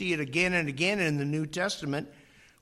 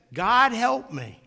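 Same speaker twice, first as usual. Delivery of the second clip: loud, high, slow plea; desperate plea; 8 semitones higher, 7 dB louder, slower than usual. Retold or imitated. Man on cliff begging God, loud plea. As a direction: beg out loud for rescue. Man pleading while hanging.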